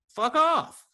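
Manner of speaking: high, sharp retort flung back; a hammed-up fuck off; mock yell. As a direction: tell her off with a high-pitched snap. Telling off the angry visitor.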